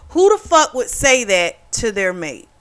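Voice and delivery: indignant question in one run; outraged rhetorical question, evenly driven. Real, not acted. Indignant rhetorical question, first take.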